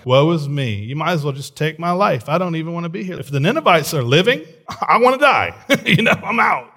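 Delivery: mock self-pity, pitch climbing to a high wail; hammed-up pouting. Jonah sulking to God about the Ninevites living, mock pouting. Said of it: "He's pouting".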